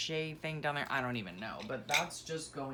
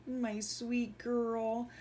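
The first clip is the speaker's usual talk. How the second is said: very slow, high, tender; tender coo; 8 semitones higher, much slower than usual. Real, not acted. Mother cooing at her daughter's photo, slow and tender. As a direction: linger over each word lovingly.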